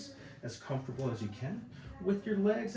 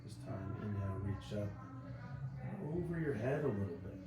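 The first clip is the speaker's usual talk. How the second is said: calm, unhurried relaxation-exercise voice; softer than chatty talk, with long pauses; guided body scan; 5 dB quieter than usual. Acted. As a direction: guide them gently through each breath. Leads breathing body scan.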